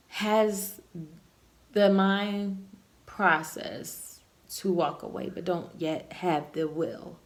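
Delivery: slurred, tipsy speech; tipsy slurring. Real, not acted. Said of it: "Sorry, I'm a little slurry".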